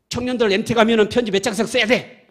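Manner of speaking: lightly voiced stern pastor giving orders; pastor scolding. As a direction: imitate the pastor laying down the law. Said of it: "이거 막 호통쳐요".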